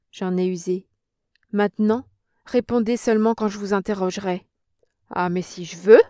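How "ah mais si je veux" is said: loud, defiant comeback; the old woman retorts loudly. A narrator's reading. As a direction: throw it back at her. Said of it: "riposta la vieille".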